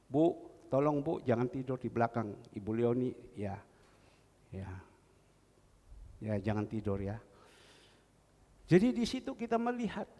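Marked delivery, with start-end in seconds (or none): 0.1-7.2 a lower, hushed urging tone; gently but firmly warn her not to sleep. Retold or imitated. Pastor telling a woman not to sleep at the back, low urging.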